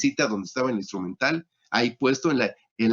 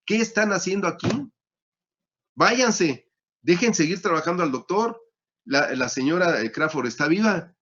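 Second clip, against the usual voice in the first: higher, indignant telling-off of the crowd; scolding the mob; 4 semitones higher than usual. Retold or imitated. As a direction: drive the mob out with mock indignation. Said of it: "Les empieza a reclamar".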